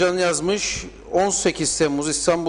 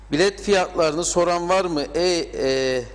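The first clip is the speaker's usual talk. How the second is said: town crier; 3 semitones higher than usual. Pretend. Mock town crier announcement.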